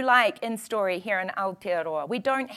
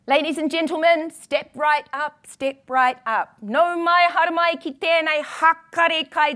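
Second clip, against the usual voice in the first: loud carnival barker; 4 semitones higher, 4 dB louder than usual. Acted. Poem opens as freak-show barker.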